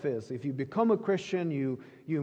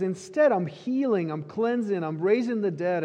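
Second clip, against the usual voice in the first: fervent declaration; 3 semitones higher, 4 dB louder than usual. Retold or imitated. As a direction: announce each work with rising fire. Jesus quoted with rising fervor.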